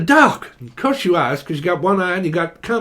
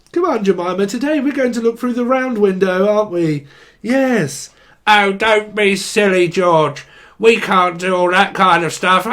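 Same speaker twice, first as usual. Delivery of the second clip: Rainbow puppet voices; 2 semitones higher, 3 dB louder than usual. Pretend. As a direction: play the squabbling puppets of a kids' show, mock-sweet. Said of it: "Only the British folk will get that one".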